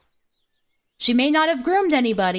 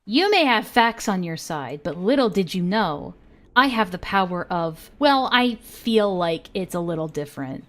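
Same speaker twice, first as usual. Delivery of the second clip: mocking impression; 5 semitones lower than usual. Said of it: "that's just Izzy's entire existence".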